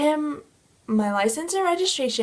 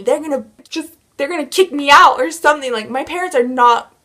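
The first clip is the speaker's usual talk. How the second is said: freaking out; 4 dB louder than usual. Retold or imitated. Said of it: "I start freaking out".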